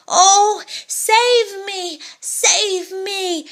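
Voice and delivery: high, pleading cry for help; terrified cry. Acted. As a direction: beg for rescue in panic. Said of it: "he cried".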